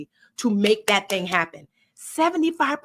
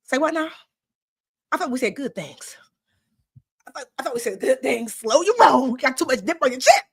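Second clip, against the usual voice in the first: sassy creator voice. Acted. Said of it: "your creator is like".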